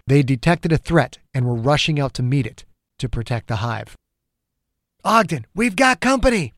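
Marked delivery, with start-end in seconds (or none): 5.0-6.5 urgent warning shout. A narrator's reading. Soldier warns of attacking creatures.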